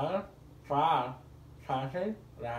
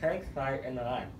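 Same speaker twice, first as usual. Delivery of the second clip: mouthpiece in mouth. Real, not acted. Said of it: "One more time".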